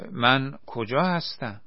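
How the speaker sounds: slow, groggy, just waking up; dazed question. Acted. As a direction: ask as if still half-conscious. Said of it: "با کم حواسی پرسید". (پرسش گیج و آهسته)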